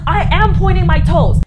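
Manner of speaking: high, loud frustrated whine; exasperated protest. Retold or imitated. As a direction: insist you're doing it, fed up. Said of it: "I'm like".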